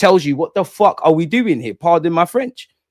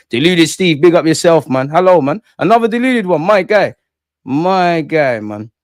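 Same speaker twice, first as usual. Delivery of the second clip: loud, high hype greeting to chat; big up the viewer with energy; hyped streamer shoutout; 4 semitones higher, 4 dB louder than usual. Real, not acted.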